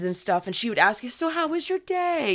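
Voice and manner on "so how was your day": high, sing-song droid greeting; lightly voiced friendly AI. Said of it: "she had this very".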